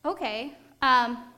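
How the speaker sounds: mock panic at being taken up; flustered surprise. Helper caught off guard by a real request, flustered. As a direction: caught off guard, stammering then loud.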